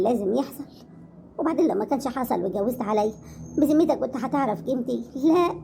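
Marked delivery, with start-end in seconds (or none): 5.2-5.5 a sobbing no; crying out no to husband; tearful no. Acted. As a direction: break into a cry on the word. Wife tearfully asks about remarriage.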